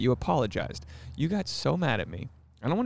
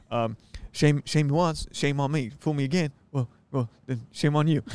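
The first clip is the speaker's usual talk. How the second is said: lightly voiced Bush, fumbling the saying; George Bush impression; 3 semitones higher than usual. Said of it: "I'll be the old W".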